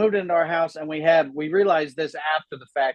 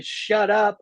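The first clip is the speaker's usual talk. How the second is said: higher-pitched mock yell at normal volume; retold neighbor's yell; 6 semitones higher than usual. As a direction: imitate the neighbor hollering at dogs. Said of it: "and then that guy".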